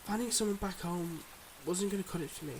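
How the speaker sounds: measured, heartfelt confession with long pauses; earnest secret-life lover. Acted. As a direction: confess gently but seriously, pausing between thoughts. Acts a secret-life lover's farewell.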